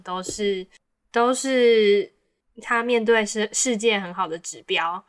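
smooth radio DJ dedication read; radio announcer voice. Pretend. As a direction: read it like a late-night radio host. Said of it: "我要转那个广播腔".

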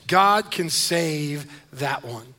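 God can save "that" one, slow, leaning hard on "that"; stress on that. Shown as a demonstration. Pastor to congregation, slow with "that" stressed. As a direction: draw out "that" with weight. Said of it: "I've bolded, I've emphasized it".

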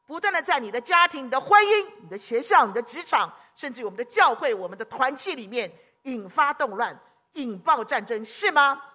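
fiery pulpit build-up; preaching loud. Real, not acted. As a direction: hammer each place Satan strikes. Preacher rails against Satan's attacks.

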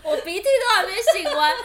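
mild real tears under laughter; tearful laughing complaint. Real, not acted. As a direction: still teary, half laughing.

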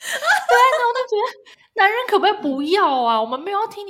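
high, loud plea through laughter; laughing groan at men; laughing exasperation. Real, not acted. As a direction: beg through giggles.

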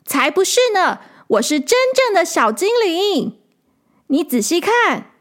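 high, insistent little fairy; tiny tinkling fairy voice. A narrator's reading. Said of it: "小精灵说".

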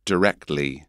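English "answer", broad A, said for repeating; English accent. Shown as a demonstration. Teacher repeating for the host, English accent. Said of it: "so in an English accent".

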